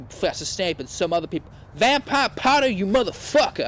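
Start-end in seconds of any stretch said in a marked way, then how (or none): 1.7-3.7 higher angry yell at him. A narrator's reading. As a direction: yell it across the classroom. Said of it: "I yelled".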